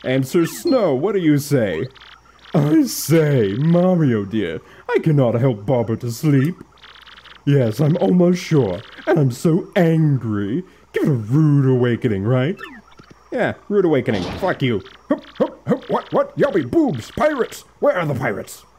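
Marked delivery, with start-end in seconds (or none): 2.5-12.6 lightly voiced, proud and theatrical; a hint of a grand stuffy aristocrat; pompous gentleman. Voicing pompous Sir Snow character. 15.1-18.6 much higher, jolted awake and flustered; squeaky sudden wake-up yelps; a sleepy old sailor jerked awake; startled old sailor. Acted. Voicing Bobbery waking up startled.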